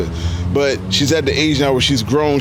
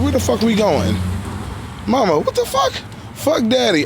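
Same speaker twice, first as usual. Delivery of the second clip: imitating kids; 8 semitones higher than usual. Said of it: "They be like".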